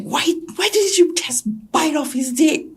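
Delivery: high, loud mock berating; family berates her for not fighting; mock scolding family. Family berating victim, high mock scold. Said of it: "My family was, like, scolding me".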